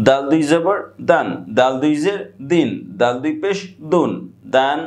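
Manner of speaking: measured recitation in a repeating tune, pausing between groups; singsong spelling drill. Shown as a demonstration. Teacher drilling Arabic tanween for students, singsong recitation. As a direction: chant each letter with its vowel marks, then its sound.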